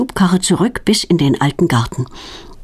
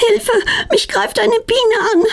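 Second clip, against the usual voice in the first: much higher, frightened squeal for help; a bee is on her, she panics; panicked cry for help. A narrator's reading. Claudia, attacked by a bee, cries for help in high panic.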